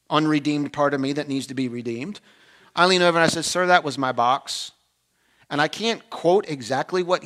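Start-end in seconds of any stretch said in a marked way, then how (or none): 3.4-4.7 passive-aggressive. Retold or imitated. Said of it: "in my passive-aggressive, sarcastic".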